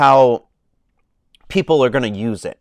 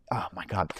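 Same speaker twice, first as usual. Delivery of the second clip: awed whisper; 5 semitones lower, 12 dB quieter than usual. Real, not acted. Gushing about the film.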